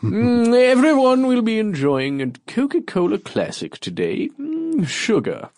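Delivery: high, pompous sponsored announcement; a king plugging soda; royal ad read. Pretend. Monarch reads Coca-Cola sponsor message.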